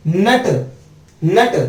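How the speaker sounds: नट with a held n into a full t; नट as a half n and a whole t; "nt" sound demo. Shown as a demonstration. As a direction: hum briefly on the n of नट, then release the t. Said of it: "एन टी का sound याद कर लो".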